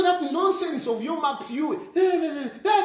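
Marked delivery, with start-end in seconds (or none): 1.9-2.8 laughing no's. Real, not acted. Mocking dismissal, laughing.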